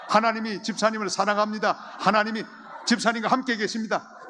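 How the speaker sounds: high, loud, urging on; fervent exhortation. Acted. Preacher leading congregation in blessing, loud and high. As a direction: whip the crowd up.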